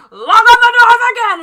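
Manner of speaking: high, very loud retold holler; sudden yelled order. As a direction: scream the order out of nowhere. Boss suddenly yells, contrast with calm.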